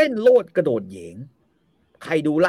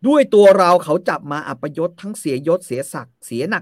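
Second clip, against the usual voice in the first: hammed-up bitter lament; 4 semitones higher, 7 dB louder than usual. Usalen's bitter lament voiced.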